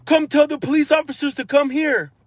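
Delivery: father urgently calls son to get the police, loud; urgent retold yell. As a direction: shout the order to the boy across the beach.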